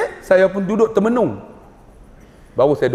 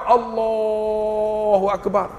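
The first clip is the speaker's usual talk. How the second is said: excavator takbir; 4 semitones higher, much slower than usual. Retold or imitated. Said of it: "Ada yang jengkaut".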